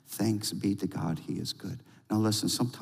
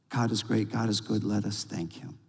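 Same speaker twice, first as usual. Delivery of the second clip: quiet praise; 3 dB quieter than usual. Acted. Quiet call to give thanks.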